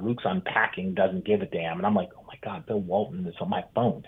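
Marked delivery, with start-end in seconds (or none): 2.2-4.0 starstruck hush. Retold or imitated. Starstruck over voicemail.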